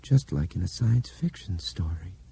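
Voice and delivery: hushed touch of wonder; awed. Acted. Albert compares it to a science fiction story, mildly awed. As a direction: say it with understated awe. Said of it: "His voice was awed".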